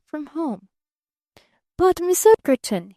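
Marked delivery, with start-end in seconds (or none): 1.8-2.9 higher, a stammering puzzled protest; perplexed stammer. A narrator's reading. Barton protests as she dismisses him, puzzled and higher. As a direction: blurt it out, thrown. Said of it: "he began all over again".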